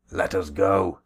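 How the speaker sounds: commanding shout. Acted. Warrior leaps up, calls out.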